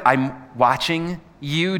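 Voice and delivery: "I'm watching you" drawn out slowly with a questioning rise at "you"; slow, rising question. Shown as a demonstration. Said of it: "do you like it when someone's watching you".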